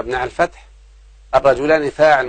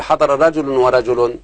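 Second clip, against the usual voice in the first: slow example; slower than usual. Shown as a demonstration. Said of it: "بدل ما أقول".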